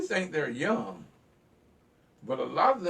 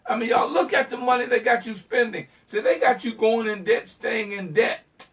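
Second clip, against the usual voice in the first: laughing scorn; 6 semitones higher, 7 dB louder than usual. Real, not acted.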